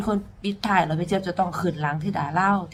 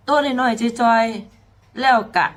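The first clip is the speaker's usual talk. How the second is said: very slow, each syllable weighed; slow emphatic; 3 semitones higher, 4 dB louder, much slower than usual. Shown as a demonstration. Singer repeats how small the girl is, slowly. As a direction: lean on every word, slowly. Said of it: "repeats tiny phrase differently".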